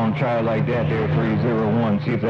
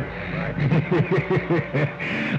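short laugh; 2 semitones higher than usual. Real, not acted. Laughs at his own joke.

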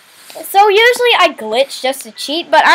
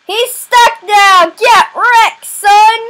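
gloating taunt; 4 semitones higher, 4 dB louder, much slower than usual. Real, not acted. Taunting the trapped player.

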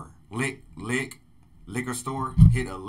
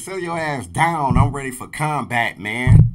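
hyped shout; 10 dB louder than usual. Real, not acted. Reactor shouting back the Batman line he loves, hyped. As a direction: yell the lyric like it blew your mind.

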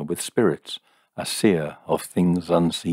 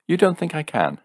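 demanding; 10 semitones higher than usual. A narrator's reading. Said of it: "he demanded".

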